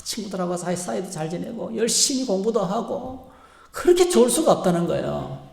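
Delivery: teacher gushing to a proud mother; gushing praise. Retold or imitated. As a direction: pour on the praise to the parent.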